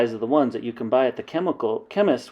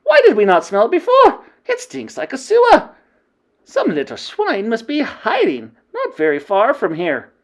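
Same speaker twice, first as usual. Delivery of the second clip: high, loud cries of disgust; disgusted witches shouting; 12 dB louder than usual. Acted. The coven shouting over the smell, disgusted. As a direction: howl at the stink.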